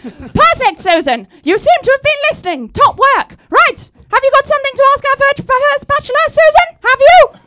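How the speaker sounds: Cilla Black impression. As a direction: play the cheery TV hostess. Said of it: "I'm Cilla Black".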